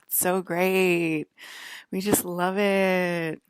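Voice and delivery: drawn-out sarcastic praise; slow sarcastic drawl. Real, not acted. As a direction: say it slowly, dripping with sarcasm. Sarcasm about being attacked.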